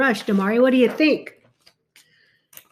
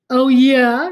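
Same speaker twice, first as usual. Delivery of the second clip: challenging; 8 dB louder than usual. Acted. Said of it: "repeated Leonardo".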